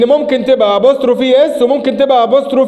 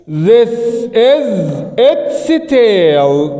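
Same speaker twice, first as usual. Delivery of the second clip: slow model sentence, lower at the end; slowish model sentence; 3 semitones lower, much slower than usual. Shown as a demonstration. Teacher modelling the example slowly. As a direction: read it word by word. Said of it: "اقول ايه؟".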